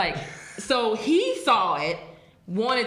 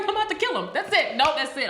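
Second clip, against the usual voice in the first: high, laughing mock threat; a giggling vow to fight; laughing mock resolve; 5 semitones higher, much faster than usual. Telling John her panicked thought at the bus stop, high laughing. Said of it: "I instantly was like".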